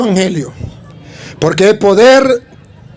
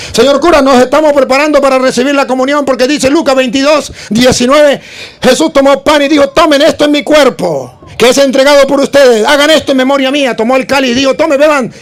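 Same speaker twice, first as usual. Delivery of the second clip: put-on child reciting; 7 semitones higher than usual. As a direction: recite like a proud pupil.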